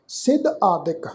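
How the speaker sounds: ਸਿਧ ਆਦਿਕ as two separate words; split compound. Shown as a demonstration. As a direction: break between ਸਿਧ and ਆਦਿਕ. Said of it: "ਦੋ ਸ਼ਬਦਾਂ ਦਾ ਇਹ ਜੋੜ ਹੈ". (ਸਿਧ ਆਦਿਕ ਨੂੰ ਵੱਖ ਕਰ ਕੇ ਬੋਲੋ)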